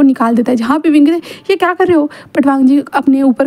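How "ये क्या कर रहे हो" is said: higher-pitched, mildly alarmed query; startled question. Acted. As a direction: react as if caught off guard. Wing startled as blanket is pulled off.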